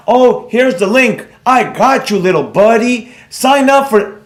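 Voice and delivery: drawn-out, mock-eager pretend helper; mock helpful. Streamer mimicking himself handing moochers the link, mock helpful. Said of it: "it would be the other way around".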